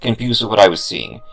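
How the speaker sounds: ordinary delivery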